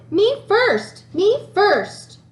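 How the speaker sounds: high, loud me first demand; shouting. Acted. Child at sharing time shouting to go first. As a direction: blurt it out over the class, eager. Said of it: "I shouted".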